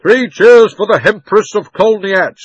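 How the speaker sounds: loud, high, drawn-out jeering cheer; mock cheer. A narrator's reading. Crowd cheering the witch to make fun of her, mock cheer. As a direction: call out a crowd's mocking hurrah.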